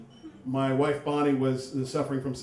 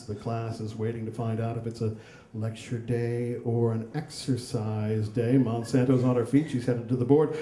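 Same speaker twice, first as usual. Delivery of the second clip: golf announcer voice. Retold or imitated. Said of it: "in golf announcer voice".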